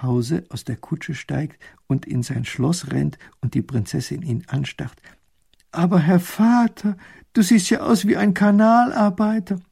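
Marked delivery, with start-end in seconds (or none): 5.7-9.6 higher, louder astonished daughter; loud shocked princess. Acted. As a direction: gasp at the muddy father. Princess shocked at dirty father.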